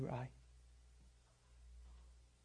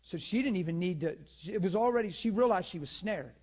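louder and higher, building; raised preaching; 4 semitones higher, 6 dB louder than usual. Acted. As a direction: drive it home loudly. Preacher rising to climax.

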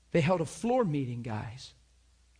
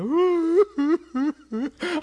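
high, loud comic wail; exaggerated fake sob, drawn out high; mock crying wail; 10 dB louder than usual. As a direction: burst into hammed-up bawling. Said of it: "I just start crying".

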